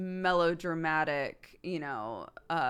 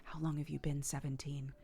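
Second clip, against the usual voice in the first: quoted vampire line; 4 semitones lower, 9 dB quieter than usual. Retold or imitated. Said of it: "The classic line".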